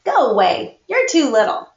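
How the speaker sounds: annoyed big brother pushing her away; grumpy brush-off. Acted. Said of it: "Felix scowled".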